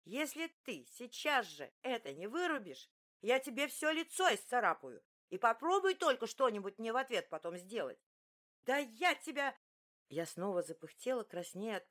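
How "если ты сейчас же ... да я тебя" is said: she threatens to scratch his face; furious threats. Acted.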